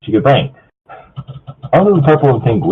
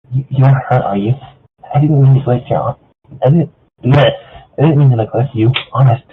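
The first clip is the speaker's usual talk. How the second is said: Fluttershy; 2 semitones higher than usual. Acted. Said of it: "Maybe I should do Fluttershy".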